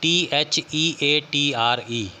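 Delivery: letters spaced out slowly; teacher spelling a word slowly for students. Shown as a demonstration. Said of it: "थिएटर की spelling बनेगी".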